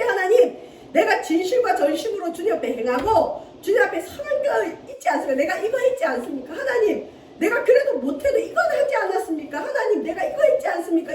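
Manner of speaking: mock Hezekiah begging God, rising to a plea; pleading prayer. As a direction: beg like a king showing his good deeds.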